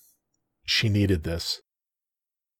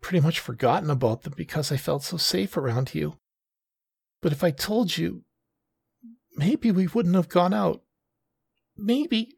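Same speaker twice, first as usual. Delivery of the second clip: put-on higher, gentle young woman's voice; Taki, female voice; 9 semitones higher than usual.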